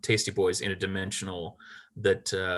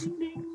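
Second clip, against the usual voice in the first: high little chime noise; ping it high like an alert; imitated little ding; 9 dB quieter than usual. Game master imitating the donation alert, little ding. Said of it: "It makes a little ding".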